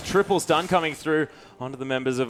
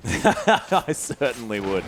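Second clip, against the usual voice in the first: laughing; 4 semitones lower, much slower than usual. Real, not acted. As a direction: chuckle through the words, slowly. Laughs at the rain check joke.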